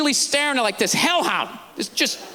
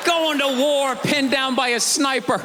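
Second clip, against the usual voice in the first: mock heroic; slower than usual. Repeats bit, slower, mock heroic.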